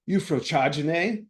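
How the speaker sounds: slow, drawn-out mock Italian; Italian accent. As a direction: say it slowly like an Italian Pope. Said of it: "like the Pope".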